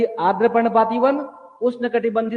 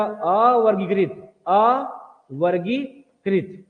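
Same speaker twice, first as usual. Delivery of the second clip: slow dictation; much slower than usual. Shown as a demonstration. Teacher dictating notes to class.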